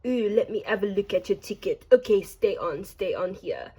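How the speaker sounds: lightly imitated French accent; a hint of a French train conductor; French conductor's accent. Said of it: "There was this French milf train conductor".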